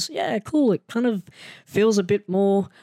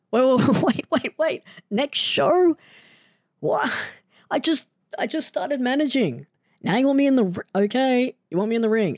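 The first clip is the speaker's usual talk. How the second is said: high, panicked yelps of disbelief; sudden high squeaky panic; freaking out; 8 semitones higher than usual. Real, not acted. Hears he'll wrestle next show, high panicked yelps. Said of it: "I'm freaking out".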